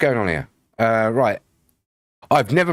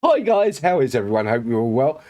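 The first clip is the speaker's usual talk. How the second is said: high, loud put-on greeting; chirpy falsetto hello; silly high greeting; 4 semitones higher, 3 dB louder than usual. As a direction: squeal hello in the new voice. Greeting viewers in new voice.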